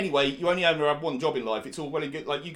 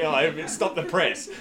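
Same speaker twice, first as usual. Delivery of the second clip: sarcastic; 3 semitones higher, 6 dB louder, much slower than usual. Retold or imitated. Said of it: "So, like".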